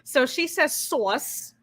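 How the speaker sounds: slow, clear and deliberate; slow teaching voice. Shown as a demonstration. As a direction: spell it out slowly like a lesson. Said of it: "this is a lesson for everyone".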